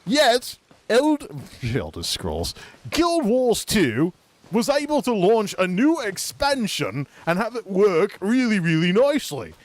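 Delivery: mock British rant; lightly faked British accent; fake British accent. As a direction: rant like a huffy British critic. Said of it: "my fake accent".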